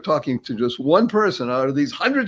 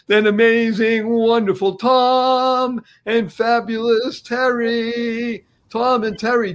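higher, slow showman build to the guests; announcer introduction; 6 semitones higher, slower than usual. Acted. Host introducing Tom and Terry to the audience, hyped. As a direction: hype the guests like a ringmaster.

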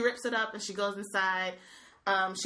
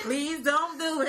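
higher-pitched, hammed-up begging; mock pleading; 4 semitones higher than usual. Viewer begging Blake not to propose, mock pleading. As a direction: plead in playful despair.

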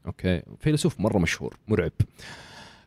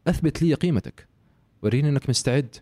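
higher, challenging mentor voice; demanding professor; 6 semitones higher than usual. Pretend. Professor testing a would-be student, higher and demanding. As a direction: challenge the student to prove himself. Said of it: "أنت بروفيسور في جامعة".

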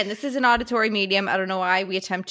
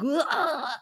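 groan; 6 semitones higher than usual. Retold or imitated. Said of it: "I was like".

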